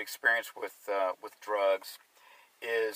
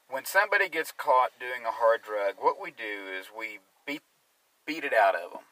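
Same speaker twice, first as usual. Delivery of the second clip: sarcastic. Real, not acted. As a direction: spell out a harsh policy with dry irony. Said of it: "I'm being sarcastic here".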